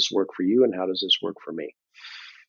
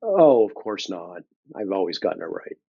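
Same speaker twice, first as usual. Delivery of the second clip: sarcastic. Pretend. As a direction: say it with heavy irony. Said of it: "It's my sarcasm coming through".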